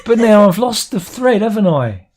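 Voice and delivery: real laughter in a playful retort; laughing retort. Real, not acted. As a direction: toss it back through laughter. Laughing back at co-host.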